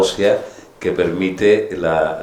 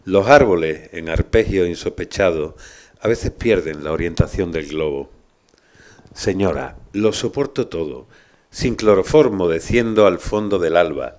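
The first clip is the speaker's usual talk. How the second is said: poetry reading. Acted. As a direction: read the poem with weight. Reads a Huidobro poem aloud.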